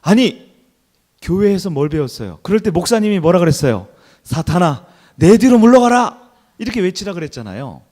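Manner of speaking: loud, high scolding outburst; husband yells at wife to rebuke Satan, loud and high; husband shouting. Retold or imitated. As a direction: yell it at the wife in alarm. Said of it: "남편이 갑자기 소리를 지릅니다".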